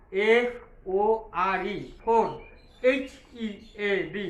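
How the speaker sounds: spelled out piece by piece, ফোর then এইচ ই এ ডি; teacher splitting ফোরহেড into chunks for the class; broken into parts. Shown as a demonstration. Teacher breaks the spelling apart for pupils, slow and deliberate. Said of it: "ভেঙে ভেঙে উচ্চারণ করলে".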